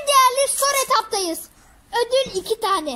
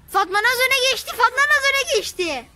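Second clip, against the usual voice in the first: excited; 3 semitones higher, 5 dB louder than usual. Real, not acted. Announcing the lead in a contest.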